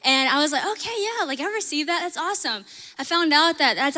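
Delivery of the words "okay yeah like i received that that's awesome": bright, pitched-up okay yeah; lightly excited yes to a friend; eager agreement. Retold or imitated. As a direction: jump in with happy agreement. Her own eager reply, retold.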